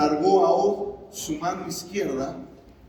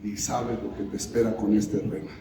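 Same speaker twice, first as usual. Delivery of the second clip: menacing Od; 8 semitones lower than usual. Acted. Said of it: "Y Od decía".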